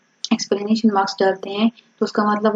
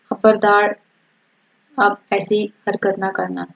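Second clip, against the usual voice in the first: mild warning. Shown as a demonstration. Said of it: "تنبیہ کر رہے ہیں نا، غصہ کر رہے ہیں".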